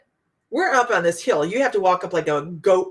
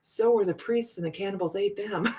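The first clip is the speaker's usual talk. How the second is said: deadpan reply; 6 dB quieter than usual. Retold or imitated. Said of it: "And just as deadpan".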